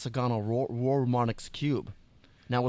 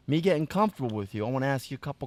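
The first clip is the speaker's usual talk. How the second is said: put-on Brooklyn accent. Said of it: "a gangster Brooklyn accent now".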